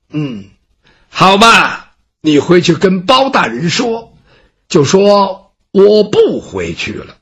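slow, measured, lightly voiced proud scholar; proud poor scholar. Gongsun Ce answers the servant, slow and dignified. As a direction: weigh each word with dignity.

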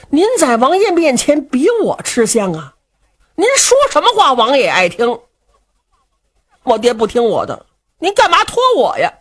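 lightly voiced young nobleman, whining refusal; young Luo Cheng protesting. Luo Cheng refuses Du Cha's request, whining. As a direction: push the job back on your big brother.

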